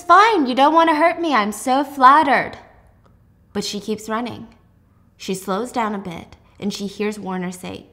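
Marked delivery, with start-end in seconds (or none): 0.0-2.5 sarcastic. Acted. Warner mocks her refusal.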